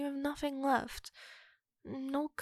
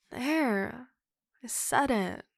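defiant yell; 4 dB louder, slower than usual. Acted. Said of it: "I didn't mean to yell at you".

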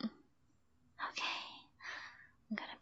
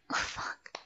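climaxing whisper; 14 semitones higher than usual. Acted. Climax in roleplay scene.

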